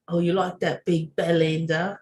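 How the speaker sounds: put-on playful British accent; lightly mocked British accent; British ex-boyfriend. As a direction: imitate a British boyfriend's dirty talk. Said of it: "my British ex-boyfriend, he's like".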